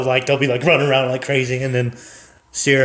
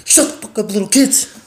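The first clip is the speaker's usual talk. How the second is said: higher, mock yell; gruff dad yell; 8 semitones higher than usual. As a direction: snap at the kids. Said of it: "the singer will be like".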